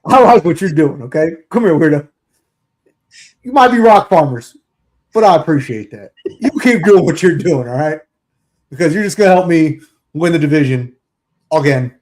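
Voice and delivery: lightly voiced gruff coach; a hint of a gruff coach calling a player over; Hey Weirdo bit. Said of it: "yours was better than mine".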